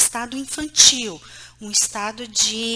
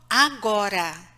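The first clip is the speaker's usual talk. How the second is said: a low, final command; firm tone; 4 semitones lower, slower than usual. Shown as a demonstration. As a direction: cut the whining short. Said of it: "tom de voz". (ordem firme e seca)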